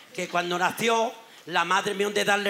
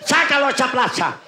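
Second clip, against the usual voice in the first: excited shouting; 3 semitones higher than usual. Acted. Father urges son outside.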